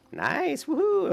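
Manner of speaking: delighted squeal of victory; level-up cheer. Real, not acted. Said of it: "That's how much I celebrate my leveling".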